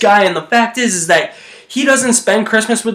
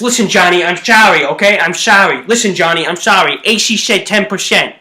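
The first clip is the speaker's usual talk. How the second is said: 1930s gangster. Retold or imitated. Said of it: "that was me as Snakes".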